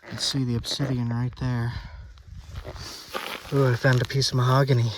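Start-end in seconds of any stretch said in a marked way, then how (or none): 3.5-4.9 excited find. Real, not acted. Excited find of mahogany obsidian.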